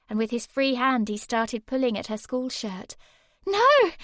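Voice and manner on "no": high, loud scream; high full-voice scream. A narrator's reading. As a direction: scream at him to stop. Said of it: "Sammy screamed at him".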